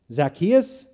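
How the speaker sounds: angry disbelief. Acted. Judah hearing who's at his door, angry and incredulous. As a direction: spit the name out in shock. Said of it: "face flushed with sudden anger".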